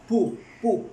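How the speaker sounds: पू said with a plain p, not b; Chinese pronunciation demo. Shown as a demonstration. Teacher drills पू, warning not to say it as बी. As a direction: repeat पू, पू with a firm p. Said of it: "आपने बी नहीं पढ़ना".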